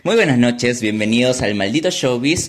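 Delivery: mock showbiz presenter, drawing out the name; TV host intro. Host introduces his guest on a pretend show, showbiz announcer. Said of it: "yo te presento".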